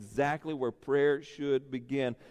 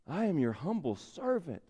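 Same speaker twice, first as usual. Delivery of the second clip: humble servant; 6 dB quieter than usual. Retold or imitated. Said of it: "Moses comes to him in humility".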